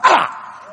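high, breathy yelp of pain. Retold or imitated. Man cutting himself crawling under the house, pained yelp. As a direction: yelp as if just cut.

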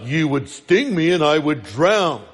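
lightly voiced tortoise objecting; a hint of a tortoise character voice. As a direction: put on a mild tortoise voice. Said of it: "to be a tortoise voice".

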